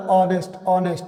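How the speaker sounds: ऑनेस्ट with the H silent, opening on an O sound. Shown as a demonstration. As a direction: say ऑनेस्ट from the vowel, no H. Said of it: "यहाँ पे एच silent है". (ऑनेस्ट में H silent, ओ की आवाज़ से शुरू)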